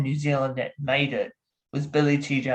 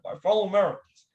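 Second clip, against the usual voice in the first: light, quick presidential impression; lightly imitated American address; Barack Obama; 5 semitones higher than usual. Shown as a demonstration. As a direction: slip briefly into an American statesman's voice. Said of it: "popping a Barack Obama".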